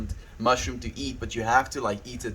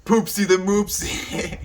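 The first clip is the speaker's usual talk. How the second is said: silly cutesy voice; 7 semitones higher, 4 dB louder than usual. Acted. Playful couple name coined.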